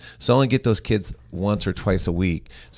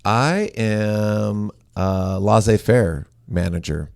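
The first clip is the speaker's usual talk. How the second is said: mock grand; much slower than usual. Real, not acted. Proud self-label, drawn out.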